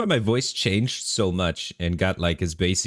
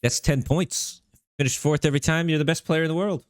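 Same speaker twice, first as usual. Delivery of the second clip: pitched-up mock praise, teasing; higher, teasing fake congratulations; mock hype; 10 semitones higher than usual. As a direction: sell it like a sarcastic cheerleader. Sarcastic joke about fourth place.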